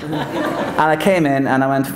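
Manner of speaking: normal talking voice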